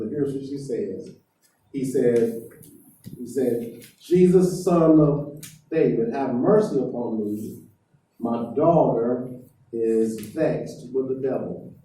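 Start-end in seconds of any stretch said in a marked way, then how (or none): 4.0-11.7 retelling a desperate plea, only half raised; woman crying out. Retold or imitated. Canaanite woman begging Jesus for mercy, mild mock cry. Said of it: "she's yelling at the top of her lungs".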